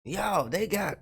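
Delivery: high, loud disbelieving yell; shocked outburst. Real, not acted. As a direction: blurt it out in shock.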